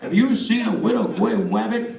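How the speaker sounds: dopey cartoon hunter, r's said as w; Elmer Fudd. Speaker shows a Mel Blanc voice, cartoon hunter with w for r. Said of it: "Elmer Fudd".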